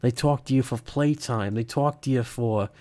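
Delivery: put-on slipping into a Boston accent. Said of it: "I'm doing the stupid Boston accent again".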